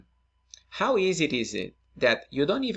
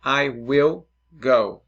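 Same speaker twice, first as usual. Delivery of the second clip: slow clear example; 7 dB louder, slower than usual. Shown as a demonstration. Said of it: "like in English".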